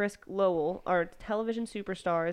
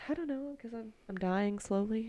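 breathless wheezy voice; wheezing, short of breath; 2 semitones higher, 3 dB quieter than usual. Real, not acted. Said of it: "Sorry, I'm wheezing".

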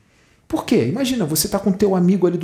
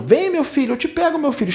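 mock crying mother; 9 semitones higher than usual.

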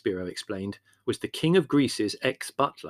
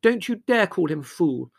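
high, loud angry defence; indignant; 7 semitones higher, 7 dB louder than usual. A narrator's reading. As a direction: leap to his defence, voice raised. Margot quarrels, defending Peter.

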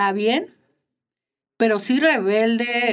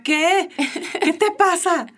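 frightened; 7 semitones higher than usual. Retold or imitated. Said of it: "yo ya así bien espantada".

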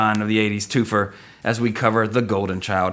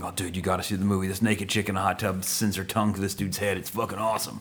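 put-on excited kid whisper; 6 dB quieter than usual. Kid friend's quote, fast.

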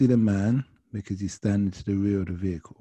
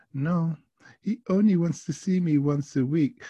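put-on high-pitched French-accented protest; French woman's accent; 7 semitones higher than usual. Passenger complaining about boyfriend, high French accent. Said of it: "an acquired accent in her voice".

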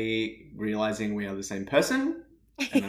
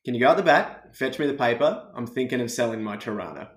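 native Australian accent as a model. Shown as a demonstration. Giving the Canadian guest one more model, Australian accent. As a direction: demonstrate an Australian accent for a learner. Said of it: "Can you give it to me one more time?".

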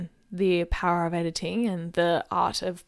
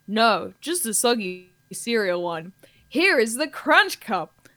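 radio ad spokesperson; slower than usual. Acted. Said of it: "two people in conversation".

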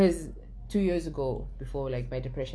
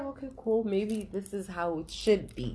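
imitating a child; 6 semitones higher than usual. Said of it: "as a child, you're just like".

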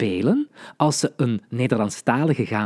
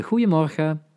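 bright, higher friendly greeting; 5 semitones higher than usual. Shown as a demonstration. Teacher demonstrating a friendly good morning, higher and kind. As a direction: greet them kindly. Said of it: "Je kan dat heel vriendelijk zeggen".

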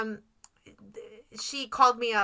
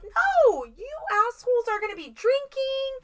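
mock exasperation; 10 semitones higher than usual. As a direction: push back half laughing. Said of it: "And I'm like".

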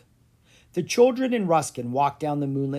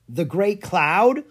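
offering a guess; 5 semitones higher, 6 dB louder, slower than usual. A narrator's reading. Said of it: "offered Lucas".

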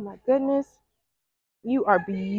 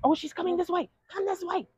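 high, soft coaxing pet talk; sweet coaxing; 10 semitones higher, 7 dB quieter than usual. Real, not acted. Coaxing a cow at the fence, high sweet pet talk. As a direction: coax the cow over sweetly.

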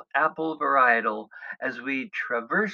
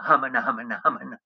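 Jackie Gleason impression; much faster than usual. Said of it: "my best impression of Jackie Gleason going".

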